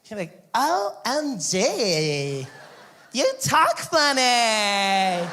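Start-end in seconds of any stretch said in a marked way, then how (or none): 0.5-2.5 put-on high, very drawn-out surfer-girl voice; California babe. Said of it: "California babe". 3.1-5.3 put-on high, loud, very slow surfer-girl drawl; mock a ditzy beach girl, stretching every word; California babe. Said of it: "California babe".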